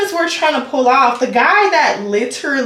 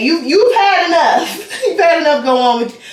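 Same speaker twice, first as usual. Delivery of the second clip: laughing through a scolding; amused scolding; 4 semitones higher than usual. Real, not acted. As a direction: chuckle while telling him off.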